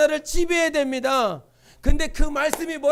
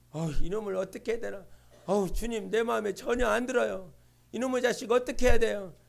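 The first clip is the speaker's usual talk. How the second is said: muttered prayer; 4 semitones lower, 6 dB quieter than usual. Retold or imitated. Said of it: "하나님 앞에 기도합니다".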